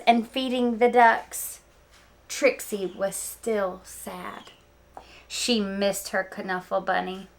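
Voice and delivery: lively read-aloud storytelling; story narration. Acted. Teacher reading Knuffle Bunny to her students, storytelling voice. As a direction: tell it like story time for kids.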